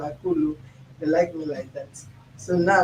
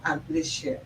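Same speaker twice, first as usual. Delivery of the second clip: whispered plea; 7 semitones higher, 6 dB quieter than usual. Real, not acted.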